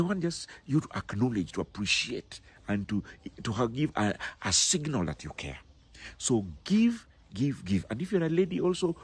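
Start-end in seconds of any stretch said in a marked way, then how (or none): 6.2-7.9 whisper. Real, not acted. Urging listeners to give.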